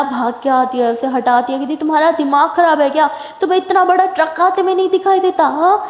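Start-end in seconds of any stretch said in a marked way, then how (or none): 1.8-5.8 high-pitched shaken telling-off; angry scolding. Retold or imitated. Maya scolding Sonu after pulling him off the road, high and rattled. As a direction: scold him for almost dying.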